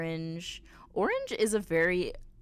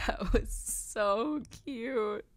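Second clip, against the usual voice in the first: awed whisper; 4 semitones higher, much slower than usual. Real, not acted. Hushed awe after a cute scene.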